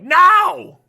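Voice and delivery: sudden loud high no; imitating sister's no. Little sister refusing to play a recording artist's music, loud and high. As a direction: snap a fed-up refusal.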